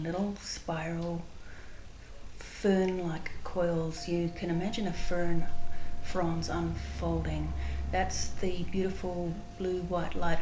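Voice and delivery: calm, unhurried guided visualization with long pauses; spontaneous meditation leading, measured and spacious. Real, not acted. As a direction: guide listeners gently inward, pausing between phrases.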